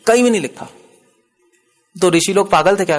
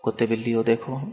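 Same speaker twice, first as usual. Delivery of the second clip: gentle and quiet, no shouting; said calmly; 2 semitones lower, 5 dB quieter than usual. Shown as a demonstration. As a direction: say it softly, as a calm fact. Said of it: "आराम से बोल दो". (शांति से, आराम से कहो)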